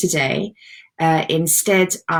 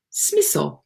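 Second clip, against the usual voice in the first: brief Japanese-accented pronunciation; a touch of Japanese accent. Shown as a demonstration. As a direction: say it as a Japanese speaker would. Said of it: "say that with a Japanese accent".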